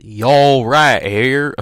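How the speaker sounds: loud, slow pirate-like drawl; pirate-like accent. Shown as a demonstration. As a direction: overdo a botched accent like a pirate. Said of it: "I sound like a pirate".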